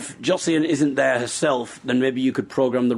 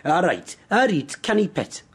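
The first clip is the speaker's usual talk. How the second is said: Geordie accent. Shown as a demonstration. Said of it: "what should we get her to say?".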